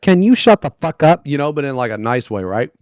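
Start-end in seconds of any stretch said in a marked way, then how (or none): 0.0-1.3 louder, higher, fed-up snap; hammed-up irritation at the girlfriend; mock exasperated yell. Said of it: "I was trying to tell her that".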